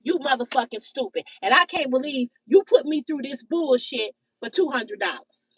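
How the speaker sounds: understated mock scolding; mock cussing out. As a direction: scold yourself under your breath, lightly acted. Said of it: "Your pussy is saying".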